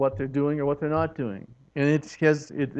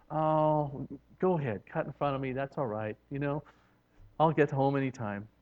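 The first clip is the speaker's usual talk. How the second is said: softer and a little lower, easygoing; soft yielding; 3 semitones lower, 7 dB quieter than usual. Acted. Merciful driver letting someone cut in, quiet and easy. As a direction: let it go, no fuss at all.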